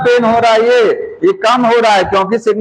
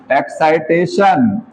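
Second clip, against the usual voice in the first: एक्साइटेशन said slowly and deliberately; slow emphasis; 4 semitones lower, slower than usual. Shown as a demonstration. Teacher giving students the meaning of a term, slow. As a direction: lean on excitation, unhurried. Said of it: "इसका meaning है कि".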